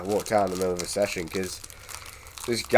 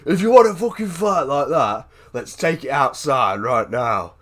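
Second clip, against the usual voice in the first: mock aggressive challenge; 4 semitones higher, 6 dB louder than usual. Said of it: "he was like".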